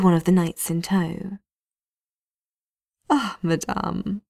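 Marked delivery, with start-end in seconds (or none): 3.1-4.2 slow, pleased greeting; delighted. Acted. Knight captain returning to his captive mage, delighted. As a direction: savour her name with glee. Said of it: "with a tone of delight".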